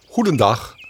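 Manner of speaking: lightly voiced stately owl greeting; a hint of a dignified old owl; owl's formal hello, only slightly put on; solemn owl. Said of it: "klonk een plechtige stem".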